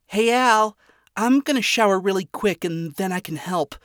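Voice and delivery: high, bright calling out; cheerful Charlie. Acted. Charlie calling to Alistair from her bedroom, high and cheerful. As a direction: call out brightly to a roommate.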